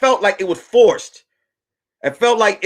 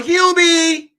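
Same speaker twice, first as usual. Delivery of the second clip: mocking wife voice; 7 semitones higher than usual. Mock wife voice again.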